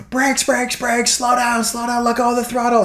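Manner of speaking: shout-whisper the commands in a rush; urgent panicked orders. Retold or imitated. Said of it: "I was like".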